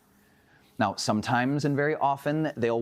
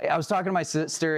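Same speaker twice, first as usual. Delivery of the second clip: wife impression; 4 semitones higher than usual. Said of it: "That's how my wife talks".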